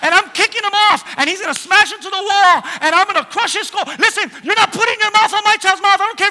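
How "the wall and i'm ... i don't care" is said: louder and higher, with laughter; joking angry-father rant; mock furious father. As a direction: play the outraged dad for laughs.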